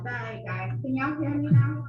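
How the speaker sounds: choppy, distorted call audio; breaking up over a bad line; bad connection. Real, not acted. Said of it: "My connection went bad".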